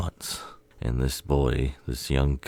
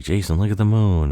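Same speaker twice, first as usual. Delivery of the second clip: raised, louder voice calling attention; mock excitement; 7 semitones higher, 7 dB louder than usual. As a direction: call out high, as if pointing something out. Voices prankster pointing at moon.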